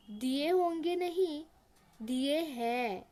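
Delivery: slow, stern correction with heavy stress on हैं; strict stern voice. Acted. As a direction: lay down the law to a timid servant. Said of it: "एकदम कड़े स्वर में, एकदम strict आवाज़ में". (एकदम कड़क, सख़्त आवाज़ में)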